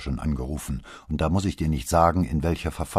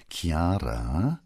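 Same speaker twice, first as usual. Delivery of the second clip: whispered name; father coaxing his daughter in a whisper; very soft voice. A narrator's reading. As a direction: breathe her name gently. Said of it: "erklärte er mit sehr sanfter Stimme".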